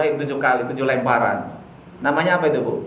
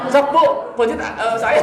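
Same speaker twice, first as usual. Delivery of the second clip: put-on child laughing; 7 semitones higher than usual. Modern child answering mother.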